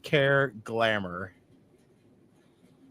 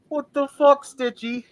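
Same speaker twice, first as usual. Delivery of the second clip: higher and louder, caught off guard; louder, stunned what the fuck; baffled outburst; 11 semitones higher, 4 dB louder than usual. Real, not acted. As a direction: shout it in disbelief. Outburst at Stitchy.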